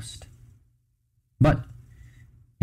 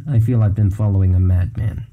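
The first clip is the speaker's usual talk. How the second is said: monotone. Acted. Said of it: "he replied in a monotone".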